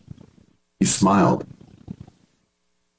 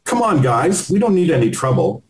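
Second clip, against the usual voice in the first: higher, urgent placating plea; pleading; 7 semitones higher than usual. Retold or imitated. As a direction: talk them down, higher. Friend placating attackers in alley.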